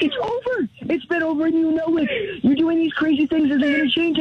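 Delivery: losing patience and cutting her off; exasperated. Real, not acted. Husband ending marriage on call.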